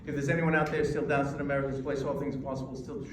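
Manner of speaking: fast, running every phrase together; water hosing the audience with words; rushed, no pauses. Shown as a demonstration. Coach demonstrating rushed speech with no pauses. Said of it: "too much".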